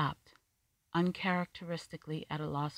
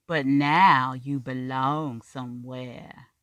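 skeptical; 10 dB louder, slower than usual. A narrator's reading. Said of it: "voice rang skeptical".

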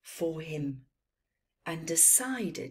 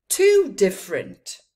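camel; 11 dB louder than usual. A narrator's reading. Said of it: "said one camel".

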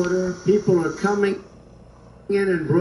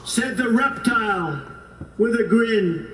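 measured storytelling recital of a poem; 3 semitones higher than usual. Acted. Speaker reciting the snake poem to the crowd, measured recital. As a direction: read it like a cautionary fable.

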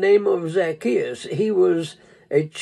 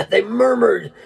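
slower, with a laugh before it; amused repeat; 3 semitones higher than usual. Shown as a demonstration. Preacher repeating to his congregation, amused. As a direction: let a laugh lead into it.

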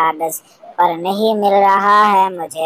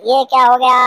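startled shout; 5 semitones higher, faster than usual. Acted. Hit by a paper plane.

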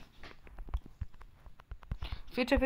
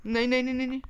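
panicked cries; 6 semitones higher, much faster than usual. Real, not acted. Gamer crying out as he falls again. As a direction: call out no in alarm.

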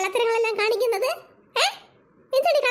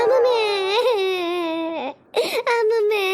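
put-on crying child; slower than usual. Child cries to grandma for parotta. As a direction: cry out for grandma. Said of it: "ഈ കരച്ചിലൊന്ന് നിർത്ത്".

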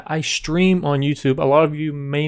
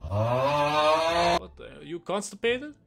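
mock Russian accent; 5 semitones higher, 3 dB quieter than usual. Mocks a stranger's laugh.

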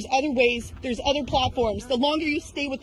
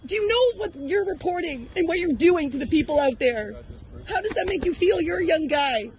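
fast, higher, pressing questions; heated questioning; 4 semitones higher than usual. Real, not acted. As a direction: push him hard for an answer. Protester keeps confronting reporter.

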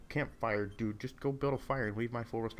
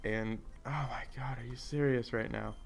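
whispered disbelief at the screen; stunned whisper. Real, not acted. Stunned by lucky game move.

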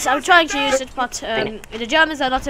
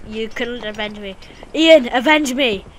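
overacted death scene; 5 dB louder than usual. Dying soldier calls for revenge.

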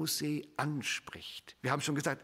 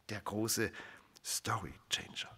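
awed whisper; 7 semitones lower, 9 dB quieter than usual. Acted. Preacher whispering God's title to the congregation, in awe. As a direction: whisper it in wonder.

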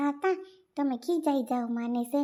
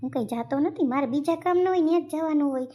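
angry retort; 3 semitones higher, 4 dB louder than usual. Acted. Husband snaps at his wife in the quarrel, angry retort.

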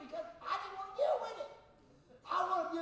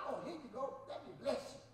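soft, whispered easygoing reply; carefree whisper; 3 semitones lower, 6 dB quieter than usual. Retold or imitated. Preacher voicing his cheerful friend in a soft whisper. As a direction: shrug it off gently, nothing bothers you.

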